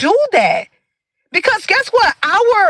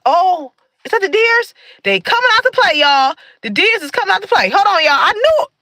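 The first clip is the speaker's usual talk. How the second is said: excited, higher-pitched outburst; opgewonden; 4 semitones higher than usual. Real, not acted. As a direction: call out a sudden sighting to viewers. Thinks deer are coming out.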